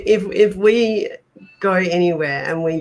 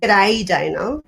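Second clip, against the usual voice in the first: Aussie greeting, broad vowels; Australian lilt, rising at the end; Australian accent. Pretend. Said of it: "'Cause we're Australian".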